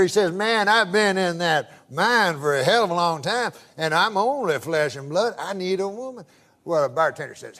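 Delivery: lightly voiced country old-timer; hint of a Southern good old boy; good-old-boy storyteller. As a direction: spin it out as a folksy yarn. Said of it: "That's how he talks".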